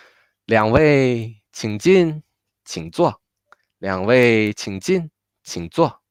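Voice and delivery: 进 and 坐 stressed, 两位 left without emphasis. Shown as a demonstration. Teacher telling two guests to enter and sit, stress on 进 and 坐. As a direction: model it in measured chunks, landing on 进 and on 坐. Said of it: "so the stress of the whole sentence".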